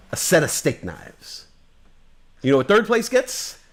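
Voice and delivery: loud, high, fierce sales boss tirade; Glengarry Glen Ross boss. Retold or imitated. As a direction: bark it at the sales team. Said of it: "Glenn Gary, Glenn Ross".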